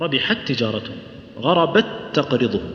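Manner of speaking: ربحت تجارتهم with the ت fully merged into the next ت; غربت تقرضهم read with complete assimilation; full merging demo. Shown as a demonstration. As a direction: merge the two T sounds of ربحت تجارتهم into one. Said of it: "ندغمها إدغام كامل".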